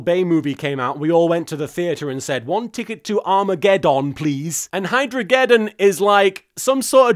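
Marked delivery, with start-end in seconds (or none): 2.5-4.7 "Armageddon" ending in a full "don"; daft British pronunciation. Acted. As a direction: say "Armageddon" with its last syllable unreduced. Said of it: "British people pronounce things daft like that".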